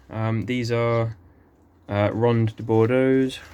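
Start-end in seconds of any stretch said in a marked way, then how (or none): 2.1-3.4 slow, careful try at French Ronde de Bordeaux's; attempted French accent. Shown as a demonstration. Gardener slowly names his fig in attempted French. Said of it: "I can't roll the R's, sorry, my French accent".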